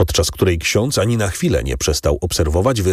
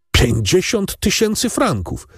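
much higher astonished cry; amazed exclamation; 12 semitones higher than usual. A narrator's reading. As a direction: gasp the sum out in greedy astonishment, much higher. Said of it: "wykrzyknął Kadrus".

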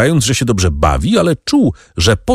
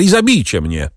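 desperate shout; 5 semitones higher than usual. A narrator's reading. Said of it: "krzyknął Danglars".

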